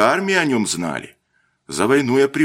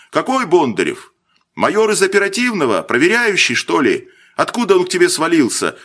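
higher, pressing rush of questions; worried barrage; 7 semitones higher than usual. A narrator's reading. Worried captain grilling the lieutenant on the phone. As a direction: pepper him with anxious questions. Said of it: "засыпал вопросами Маслов ... обеспокоенный".

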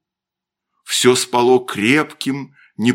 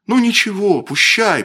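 higher, firm dismissal; resolute; 9 semitones higher, 3 dB louder than usual. A narrator's reading. Павел shrugs off the bad omen, resolute. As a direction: brush it off decisively. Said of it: "произнёс Павел решительно".

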